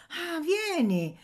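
put-on very high, slow girl's voice; little voice. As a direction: invite him in gently. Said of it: "rispose la vocina". (vocina di bambina, molto alta e lenta)

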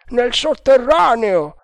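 the second guard brushes it off; doubting guard. A narrator's reading. (guardia incredula, voce alta e forte)

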